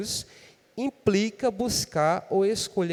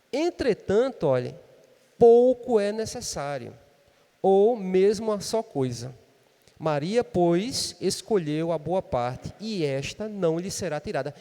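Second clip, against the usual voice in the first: loud, slow proclamation of the verse; loud scripture reading; 5 dB louder, slower than usual. Acted. Pastor reads Jesus's answer to the congregation, loud and slow. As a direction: proclaim each phrase slowly to the church.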